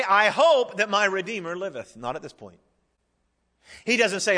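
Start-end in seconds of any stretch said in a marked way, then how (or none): 0.0-2.0 "hope" punched high and loud; stress on HOPE. Shown as a demonstration. Preacher shows what Job doesn't say, stressing "hope". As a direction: lean hard on the word "hope".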